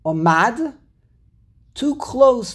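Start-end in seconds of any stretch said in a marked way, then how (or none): 0.0-0.8 "Omad" with weight on its last syllable; stress on MAD. Shown as a demonstration. Teacher showing the misplaced emphasis, end-stressed "Omad". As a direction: push the second syllable of "Omad". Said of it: "putting the emphasis on the Mad".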